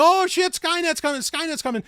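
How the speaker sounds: high, mocking alarm; hammed-up fright about Skynet; mock panic. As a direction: parody a panicked doomsayer. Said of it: "you start saying".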